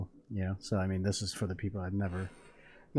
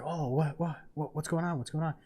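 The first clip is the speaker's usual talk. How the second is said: higher, confused stammer, acted; startled awake; 5 semitones higher than usual. Husband shaken awake by wife in labor, mock startled. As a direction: imitate waking up bewildered.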